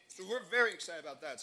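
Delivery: talking with food in mouth; words around a mouthful; mouth full. Real, not acted. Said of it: "I have stuff in my mouth".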